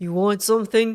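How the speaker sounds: rough, husky put-on character voice. Voicing the lady being approached for a few words, in a husky voice. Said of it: "Oh, husky voice".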